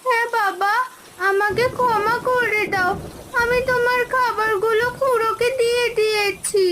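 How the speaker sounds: crying while confessing to father; a child's weepy confession; tearful apology. Acted. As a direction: plead for forgiveness through tears. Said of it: "আরে কাঁদছিস কেন মা".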